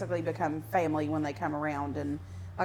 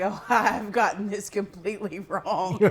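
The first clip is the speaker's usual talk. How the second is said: laughing admission; slower than usual. Retold or imitated. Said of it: "and I was like".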